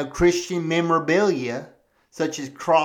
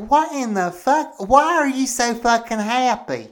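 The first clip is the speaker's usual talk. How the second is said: incredulous; 5 semitones higher than usual. Retold or imitated. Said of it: "I was like".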